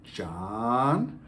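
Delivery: a warning call of the name John; stern name call. Shown as a demonstration. Parent calling child's name John in a warning tone. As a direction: say John like he's in trouble. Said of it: "You can say your child's name".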